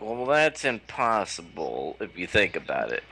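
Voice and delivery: nitpicking nerd. Retold or imitated. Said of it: "nerds are gonna go".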